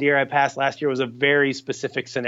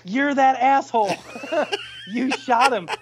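mock accusation; 11 semitones higher than usual. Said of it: "he looks and he goes".

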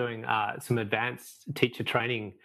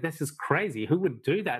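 higher, incredulous retold question; disbelief; 6 semitones higher than usual. Questioning the monks' lifelong penance, retold disbelief. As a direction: replay your bafflement at them. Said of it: "I couldn't get my head around it".

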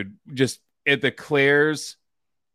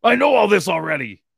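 high, raised-voice mock protest; exasperated outburst; 7 semitones higher than usual. Podcaster quoting the older guy in the video, mock exasperated outburst.

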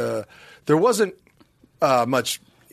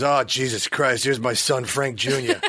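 impression of a singer; 4 semitones lower than usual. Retold or imitated. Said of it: "Smigel was playing a singer".

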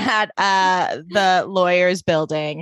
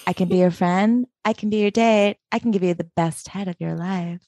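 Rex voice; 3 semitones lower than usual. Retold or imitated. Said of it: "doing my Rex voice".

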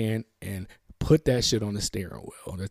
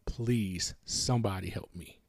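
silent plea; 3 semitones lower, 6 dB quieter than usual. Retold or imitated. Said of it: "Didn't say it".

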